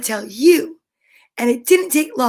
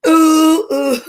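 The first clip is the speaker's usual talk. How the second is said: loud; 3 semitones higher, 7 dB louder than usual. Shown as a demonstration. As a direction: belt the oohs out loud. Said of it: "Now loud".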